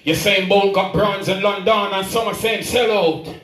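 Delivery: rhythmic praise-poem delivery; spoken-word poem. Acted. Poet honouring Jamaican athletes before an audience, spoken-word recital. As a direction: declaim each rhymed line to the crowd.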